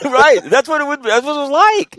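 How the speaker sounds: can barely get the words out for laughing. Real, not acted. Veteran laughing at the Iraqi meeting memory, high laughing voice.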